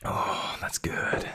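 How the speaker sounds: unvoiced whisper of approval; a hushed that's good; whispered praise. Real, not acted. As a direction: breathe it to yourself. Whisper before plain repeat.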